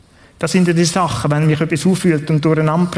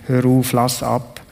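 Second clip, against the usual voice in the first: slow psalm quote; 3 semitones lower, slower than usual. Acted. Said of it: "Gott da in diesem Psalm".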